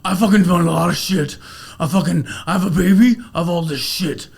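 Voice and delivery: a light Nick Cage voice with a near-closed mouth, laughing in places; Nick Cage impression. Friends hear the speaker's Nick Cage impression, lightly voiced with mouth barely open. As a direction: talk through barely parted lips like Nick Cage. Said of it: "the best Nick Cage accent I've ever heard".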